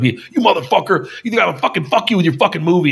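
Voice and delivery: heated complaint at normal volume; imitated pissed-off fan. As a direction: act out an irate viewer's tirade. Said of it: "they're so pissed off".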